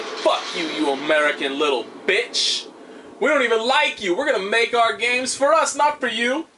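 mock developers' taunt. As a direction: taunt the player as the imagined developers. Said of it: "sitting there saying".

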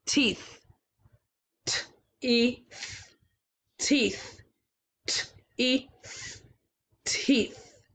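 t, e, then blend teeth; segmenting sounds. Shown as a demonstration. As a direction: split the sounds then join them. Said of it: "It's a three sound word".

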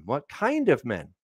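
musing repeat. Shown as a demonstration. Preacher muses over the question, slowly. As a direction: turn it over as if thinking it through.

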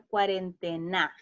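"cuarentena" with the stress moved to final NA; wrong final stress. Shown as a demonstration. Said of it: "Si la pronunciamos de la forma correcta". ("cuarentena" acentuando la última sílaba, NA)

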